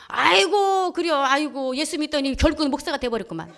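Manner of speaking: loud, high phone exclamation; exclaiming friend. Retold or imitated. Old friend hearing she became a pastor, loudly exclaiming. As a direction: open with a big, high cry of amazement.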